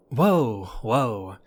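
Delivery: a loud, startled whoa that settles on the second. Acted. Kidnapper startled as the captive lashes out, loud whoa. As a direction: jump back from a feisty captive.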